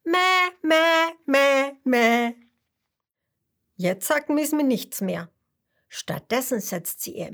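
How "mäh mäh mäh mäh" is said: louder, higher playful mäh mäh; cheerful laughing reply. Acted. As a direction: bounce it back gleefully to tease. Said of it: "der Gute-Laune-Fisch lacht".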